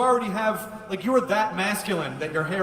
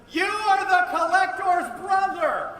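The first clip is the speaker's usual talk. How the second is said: spelled out slowly and loudly; loud slow repeat; 12 semitones higher, 4 dB louder, slower than usual. Real, not acted. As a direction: repeat it louder for a bad line. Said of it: "It's hard to hear".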